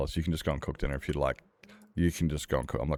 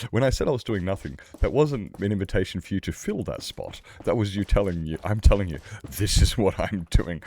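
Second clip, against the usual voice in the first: louder, higher, emphatic telling-off; mock exasperated rant; 4 semitones higher, 5 dB louder than usual. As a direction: spell it out to a friend who won't listen. Continues acted rant at inviting friend.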